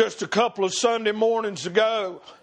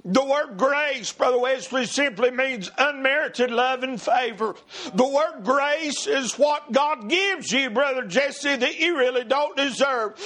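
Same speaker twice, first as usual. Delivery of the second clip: fervent preacher in a raised, rolling cadence; driving preaching; 5 semitones higher than usual. Real, not acted. Preacher testifying to the brothers about mercy, driving and fervent. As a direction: press each phrase on with fervor.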